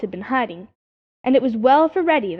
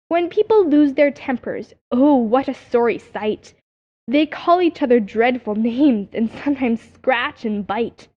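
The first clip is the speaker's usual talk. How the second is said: lilting rhymed verse, read a little louder; recited verse; 4 dB louder than usual. A narrator's reading. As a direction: read the chapter poem like a nursery rhyme.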